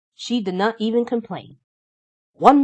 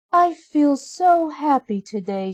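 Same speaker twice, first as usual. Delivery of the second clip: happy; 8 semitones higher than usual. A narrator's reading. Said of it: "she said".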